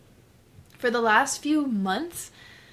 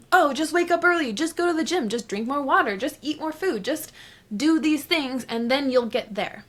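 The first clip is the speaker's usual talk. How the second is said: mocking advice; 5 semitones higher than usual. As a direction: parody the clichés everyone repeats. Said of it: "I say it like that so many times".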